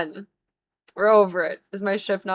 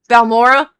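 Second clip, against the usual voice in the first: much higher and louder, appalled question; incredulous cry; 4 semitones higher, 12 dB louder than usual. Real, not acted. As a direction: spit the name out in disbelief. Incredulous about the map.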